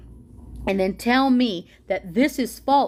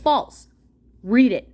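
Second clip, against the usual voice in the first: mocking quote; 4 semitones higher than usual. Ranting vlogger mocking Trump defenders' excuses in a higher voice. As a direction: mimic their excuse in a higher, put-on voice. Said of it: "be like".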